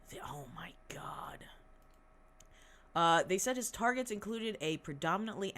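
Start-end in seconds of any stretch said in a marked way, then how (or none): 0.1-1.4 stunned whisper under the breath; aghast little whisper. Real, not acted. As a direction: breathe it out in disbelief. Shocked aside while reading.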